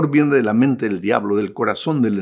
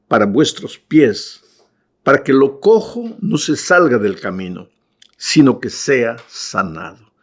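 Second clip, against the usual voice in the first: slow, solemn reading of the verse; scripture reading; slower than usual. Acted. Preacher reading Hebrews aloud to the congregation, slow and solemn. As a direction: read each phrase slowly and gravely. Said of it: "Dice así".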